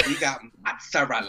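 mimicked waitress with Queens vowels; Queens accent. Teasing cohost's imitation of waitress, Queens accent. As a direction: parody the line in a Queens accent. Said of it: "Why she sound like she from Queens?".

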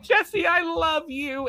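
high, slow lovesick voice; mock tender heroine. Fan mocking heroine's line, high slow swoon. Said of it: "she's like".

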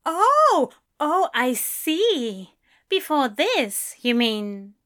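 high "oh" settling into slow understanding; dawning realisation. A narrator's reading. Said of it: "Then Aziraphale's confusion cleared".

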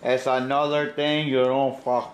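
mock Cuban gangster accent; Al Pacino's Scarface accent. Acting Scarface for the co-host, Scarface accent. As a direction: warn them in a bad Scarface accent. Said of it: "he knows it's a horrible accent".

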